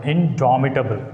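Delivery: Indomitable with a clear stressed syllable; stress demo. Shown as a demonstration. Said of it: "This is the word".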